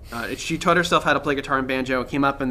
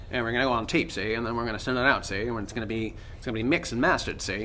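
put-on Transatlantic accent; 3 semitones lower, 5 dB quieter, faster than usual. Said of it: "Transatlantic accent".

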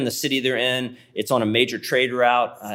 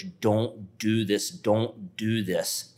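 pleading; 3 dB quieter, much slower than usual. Retold or imitated. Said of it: "he's crying out to his brothers".

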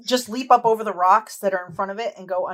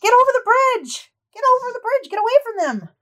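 high-pitched urgent yell; loud, strained high holler; 7 dB louder than usual. Acted. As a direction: yell a frantic warning across the distance. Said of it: "Anders yells".

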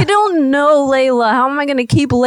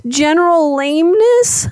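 higher, rising mock wail; fake crying; 4 semitones higher than usual. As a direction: build into a put-on sob on the question. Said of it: "I can fake cry".

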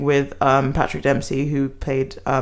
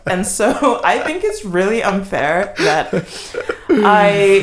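mock Karen; 5 semitones higher, slower than usual. Mocking Ellen Pompeo's defence.

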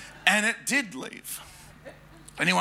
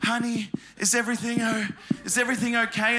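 sweet caring mum; 4 semitones higher than usual. Retold or imitated. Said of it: "and says".

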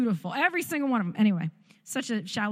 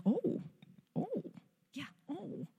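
mock nurse surprise; 7 semitones higher, 9 dB quieter, slower than usual. Nurse realises labor has progressed.

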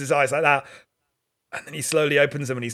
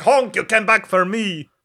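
higher-pitched, hammed-up movie emotion; emotional reunion cry; 6 semitones higher, 3 dB louder than usual. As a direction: call out overwhelmed at a friend's return. Acted emotional reunion with Honk.

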